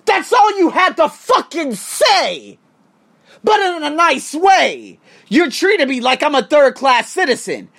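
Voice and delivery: exasperated. Real, not acted. Angry rant at support.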